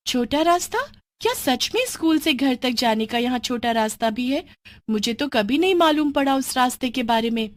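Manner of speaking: can't believe there's a shortcut; surprised schoolgirl. Acted.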